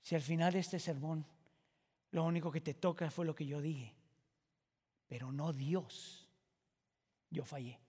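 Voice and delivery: low intimate pulpit voice; hushed reflection. Acted. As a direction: draw them in quietly. Same phrase, now hushed and reflective.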